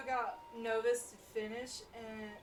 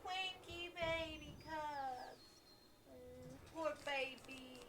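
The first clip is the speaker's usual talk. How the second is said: higher, sing-song mock sympathy; a hint of cooing baby talk; mock pity; 4 semitones higher than usual. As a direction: coo at the angry boar like a pouting toddler. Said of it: "I gotta stop talking like that".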